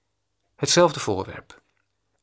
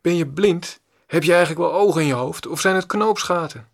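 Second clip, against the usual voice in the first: higher, louder furious yell; mock angry scolding; 5 semitones higher, 4 dB louder than usual. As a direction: let the son tear into his father. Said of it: "Mijn zoon scheldt me uit".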